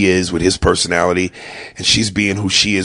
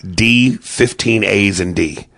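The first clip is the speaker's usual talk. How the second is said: drawn-out dad; slower than usual. Shown as a demonstration. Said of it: "he says it as though he spelt it".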